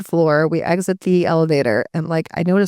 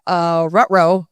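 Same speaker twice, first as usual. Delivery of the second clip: cartoon uh-oh; much slower than usual. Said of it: "I was like".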